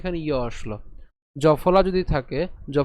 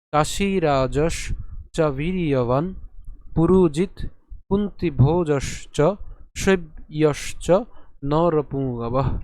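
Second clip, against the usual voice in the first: slow shloka, word by word; chant-like measured reading with long vowels and clear gaps; broken-up recitation; slower than usual. Shown as a demonstration. Teacher saying it once more for learners, slow measured recitation. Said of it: "আরেকবার বলছি".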